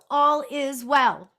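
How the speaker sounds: All is well sung out slow and loud with a lilting tune; sing-songy. Real, not acted. Medium happily sings the reassurance to viewers. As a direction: stretch all is well into a bright sing-song. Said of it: "I'm so sing-songy".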